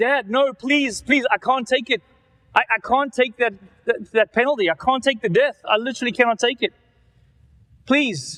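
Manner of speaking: high, desperate, crying-out voice. Retelling the judgment scene before the King on His throne, crying out and pleading. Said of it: "And I'm crying out".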